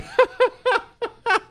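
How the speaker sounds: high burst of real laughter. Real, not acted. Host cracking up at a listener's joke, laughing high.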